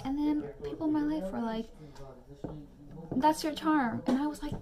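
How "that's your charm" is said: higher, louder mock encouragement; animated quoted reassurance. Quoting people in her life, animated reassurance. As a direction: quote friends with lively emphasis.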